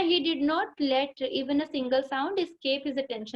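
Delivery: slow, careful reading aloud to a class; teacher reading the lesson line by line; slow textbook reading. Shown as a demonstration. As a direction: read each word out slowly for the pupils. Rereads same textbook sentence.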